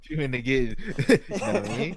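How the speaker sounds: laughing mimicry. Mocking the rapper line.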